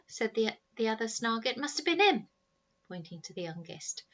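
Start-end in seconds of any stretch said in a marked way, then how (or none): 1.6-2.3 blaming. Acted. Boy blaming brother.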